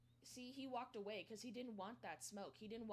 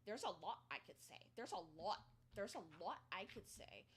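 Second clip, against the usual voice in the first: mocking imitation; 2 semitones lower than usual. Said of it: "She keeps saying".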